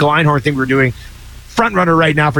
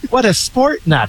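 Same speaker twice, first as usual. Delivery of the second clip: Ace Ventura quote; 5 semitones higher than usual. Retold or imitated. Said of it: "followed up with a".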